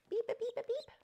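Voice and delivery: very high squeaky beeps; squeaky bird beeps; high beeping. Real, not acted. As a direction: beep back at the bird like a toy.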